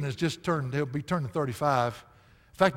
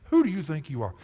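a little louder, scornful who do you think you are; defiant challenge; 3 dB louder than usual. Retold or imitated. Preacher voicing rebels against leaders, scornful challenge. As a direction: push back at the leaders. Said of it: "the false teachers were of the same mindset".

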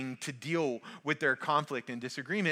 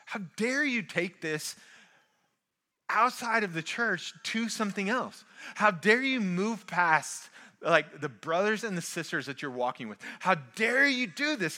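raised, pressing how dare you; indignant rebuke; 3 semitones higher than usual. Retold or imitated. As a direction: scold the church for going outside it. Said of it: "colloquialism would be like".

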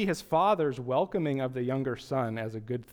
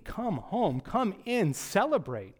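soft pleading father; 3 semitones higher, slower than usual. Pretend. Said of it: "the father is pleading".

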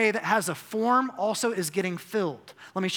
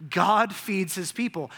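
a touch louder, still slow; firmer repeat; 3 dB louder than usual. Shown as a demonstration. Preacher repeating the line, slower and firmer. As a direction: repeat it with more force. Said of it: "You know what the story of Genesis says?".

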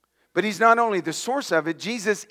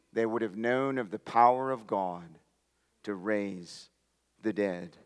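hushed preaching; 9 semitones lower, 8 dB quieter than usual. Real, not acted. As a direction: drop to a soft, low murmur. Intimate hush in a sermon.

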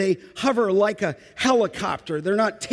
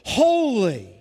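higher, drawn-out cry of praise; 4 semitones higher, 3 dB louder than usual. Acted. Seraphim calling around the throne, crying out in praise. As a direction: cry it out, pitch lifted then falling. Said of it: "They are crying out in antiphonal praise".

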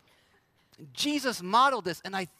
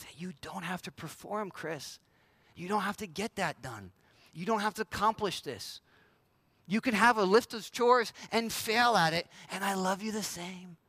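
gentle reassurance. Acted. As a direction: soothe him like a loving father. God reassuring Chris softly.

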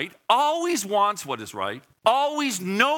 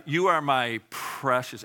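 tender endearment; 3 semitones lower than usual. Shown as a demonstration. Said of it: "It's a term of endearment".

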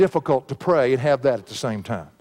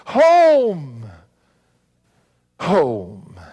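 fading last words; 5 dB louder than usual. Retold or imitated. Preacher retelling a dying woman's last breath, cry fading to a hush. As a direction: let the voice die away on the last home.

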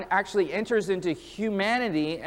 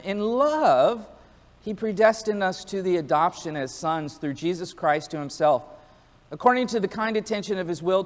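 scripture reading. Acted. Preacher reading Ephesians to the church, formal scripture reading. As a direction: read the verses aloud to the congregation with weight. Reads Ephesians passage aloud.

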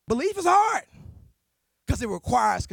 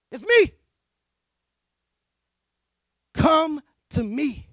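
God speaking. Acted. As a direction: proclaim it as God calling his children. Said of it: "God says".

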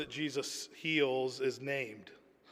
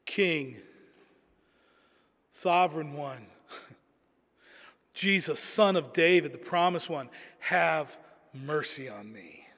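humble pleading beggar. Retold or imitated. Preacher voicing blind Bartimaeus humbly begging Jesus for mercy. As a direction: beg like a blind man with empty hands. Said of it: "Here's how the blind beggar comes".

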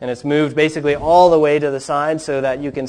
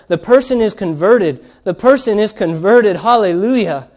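loud, high proclamation of joy; exultant shout; 7 semitones higher, 7 dB louder than usual. A narrator's reading. Local preacher jumping up in the congregation, shouting exultantly. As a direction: shout it out to the whole congregation, jubilant. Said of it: "shouted in a Cornish manner".

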